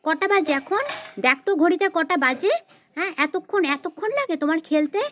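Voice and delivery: cross scolding with insistent questions; exasperated telling-off; angry mother. Acted. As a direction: scold your child for coming home late. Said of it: "মা তো দেখছি পুরো ক্ষেপে গেছে".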